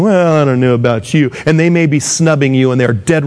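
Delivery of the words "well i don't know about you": stretched, doubtful "well"; mock snooty. Church snoots snubbing a newcomer, mock disdainful. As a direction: imitate a snob sizing someone up. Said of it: "what the snoots are saying".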